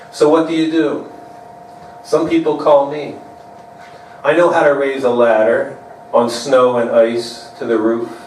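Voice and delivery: measured poem delivery with stressed images; poetry reading. Acted. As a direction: read your poem to an audience, line by line, pausing at breaks. Reads own poem aloud.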